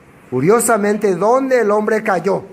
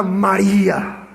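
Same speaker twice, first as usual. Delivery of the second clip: tender calling of her name; much slower than usual. Shown as a demonstration. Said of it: "Jesús le habla con un tono diferente".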